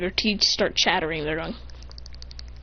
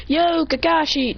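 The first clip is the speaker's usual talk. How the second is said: higher, drawn-out hail; calling out; 6 semitones higher, slower than usual. Acted. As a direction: call the teacher over, lightly acted. Calling to teacher over there.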